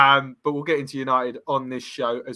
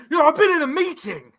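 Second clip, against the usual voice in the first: higher, put-on snappy voice reading the text; mock aggressive reply; 13 semitones higher, 3 dB louder than usual. Reading out the friend's aggressive text, mock snappy voice. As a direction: play the irritated friend texting back. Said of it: "a really aggressive message back".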